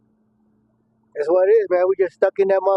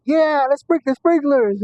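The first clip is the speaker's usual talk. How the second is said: crowd cheering; 9 semitones higher, slower than usual. Retold or imitated. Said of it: "people got out the door like".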